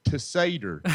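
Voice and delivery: "Tessader" with a flat e, Tess-uh-der. Shown as a demonstration. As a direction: say "Tessader", not Tassadar. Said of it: "who I call Tessader".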